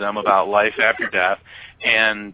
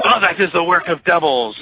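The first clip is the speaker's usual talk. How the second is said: high, animated imitation of Egyptian accent; Hussein; 7 semitones higher than usual. Cabbie condemning Buddhist belief, imitated accent. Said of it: "I guess I'm still doing Hussein".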